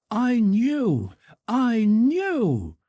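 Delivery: high and loud, insistent; repeating it proudly like a child; boy's eager cry. A narrator's reading. Son to mother, his favourite phrase cried out loud. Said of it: "he cried".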